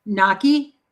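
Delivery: GNOCCHI said NAH-kee, rising at the end; pronunciation demo. Shown as a demonstration. Host answers how a word is pronounced, GNOCCHI as NAH-kee. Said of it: "How do you pronounce that".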